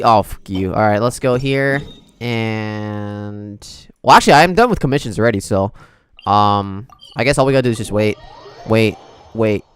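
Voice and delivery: ordinary talk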